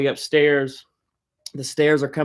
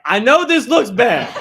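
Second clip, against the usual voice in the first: higher and louder, laughing; laughing mock panic; 10 semitones higher, 9 dB louder than usual. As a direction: plead innocent while laughing. Caught by mom mid-fight.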